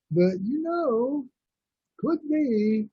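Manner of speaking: slow, high Southern drawl imitation; mock Southern drawl, drawn out slow. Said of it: "you talk with a certain drawl".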